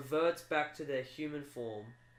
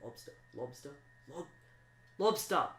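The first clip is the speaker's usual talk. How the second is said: director prompting. Acted. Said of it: "hear the director going".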